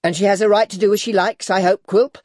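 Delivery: put-on high, loud, rapid old lady; fast, indignant mother-in-law; angry, secretly fearful. A narrator's reading. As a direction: challenge him hotly, a little afraid. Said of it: "partly with anger and partly with a secret fear".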